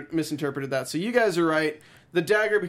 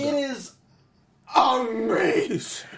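sarcastic; 6 semitones higher, much slower than usual. Pretend. Sarcastic slow praise.

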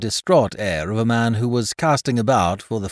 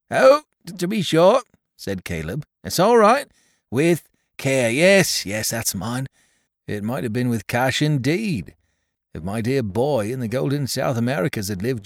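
put-on higher, fussy little old man voice; little old toymaker Caleb; 6 semitones higher, 3 dB louder than usual. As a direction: fret and ramble like a humble old toymaker. Caleb frets over box, daughter.

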